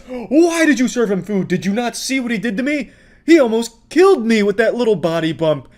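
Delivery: high, loud mock-hysterical wailing; hammed-up meltdown. Imitating an angry customer blaming the pizza place, mock meltdown. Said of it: "he starts blaming the pizza place".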